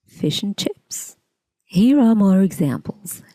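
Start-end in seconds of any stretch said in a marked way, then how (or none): 0.0-1.2 "and" reduced to "ən", slow and soft; fish-ən-chips, the "and" barely there; weak form. Shown as a demonstration. Teacher slowly models the reduced "and" for learners. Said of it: "which becomes an".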